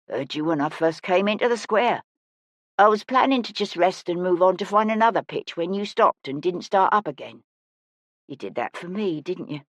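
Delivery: lightly voiced old busker, softening at the end; a hint of gentle old woman; kindly older woman. Older woman gently questions child.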